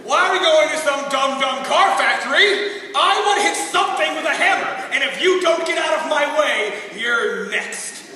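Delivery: hammed-up frustrated outburst; comic threatening rant; mock-irate protest. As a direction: demand it like a thwarted hothead. Acting frustrated volunteer protesting.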